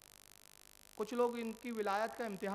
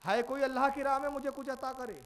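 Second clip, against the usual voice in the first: beggar calling out; 5 semitones higher, 7 dB louder than usual. Acted. Beggar calls out at the door.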